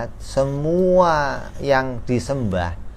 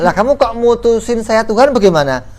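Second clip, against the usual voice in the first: much higher, louder incredulous rebuke; rebuking idol; 10 semitones higher, 4 dB louder than usual. Acted. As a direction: scold them in disbelief.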